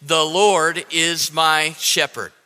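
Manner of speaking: slow, word-by-word recital for others to join; measured, evenly spaced words, falling at the end; congregational recitation. Real, not acted. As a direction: lead the room in saying it together. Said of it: "Can you say it with me?".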